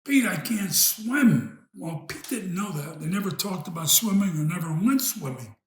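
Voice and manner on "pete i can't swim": mild mock yell, slow and raised; higher, louder imitation of a desperate call; retold yell for help. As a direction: call up to a friend as if in trouble, half-voiced. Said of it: "he yelled up to his friend Pete".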